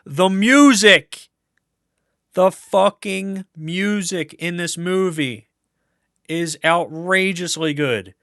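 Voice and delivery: high, loud, slow, carried away with joy; gushing excitement. Real, not acted. Raving to viewers about the movie's music, giddy and loud. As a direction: let the delight burst out high and loud. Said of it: "getting a little excited".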